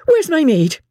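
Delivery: understated wrath, voice lifted; great wrath. A narrator's reading. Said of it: "Missus Crawley cried in great wrath".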